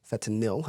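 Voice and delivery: "Fentanyl" said FET-uh-nil; "Fentanyl" as FET-uh-nil, no n before the t; corrected ending. Shown as a demonstration. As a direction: end "Fentanyl" in a short -nil. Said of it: "how it's pronounced".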